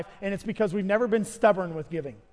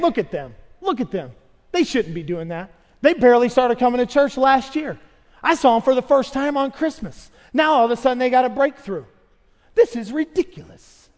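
scoffing, louder, jealous churchgoer; indignant jealousy; 2 semitones higher, 6 dB louder than usual. Retold or imitated. Jealous churchgoer about newcomers, indignant and louder. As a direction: sneer at the newcomers.

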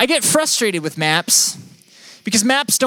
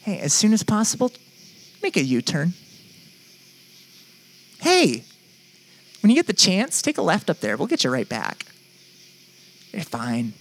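patient GPS voice. Pretend. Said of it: "and it just says".

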